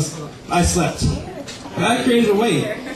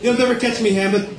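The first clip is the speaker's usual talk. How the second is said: Doctor Evil; 6 semitones higher than usual. Acted. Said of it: "Doctor Evil as King Claudius".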